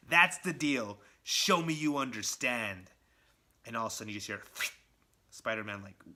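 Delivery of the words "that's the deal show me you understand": menacing villain. Retold or imitated. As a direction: savor every threat. Villain's ultimatum.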